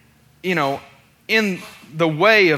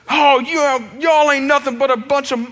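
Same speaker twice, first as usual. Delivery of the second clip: raised-pitch mock insult; imitated angry parting shot; 7 semitones higher than usual. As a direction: toss it back like a customer storming off. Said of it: "as he starts stomping away".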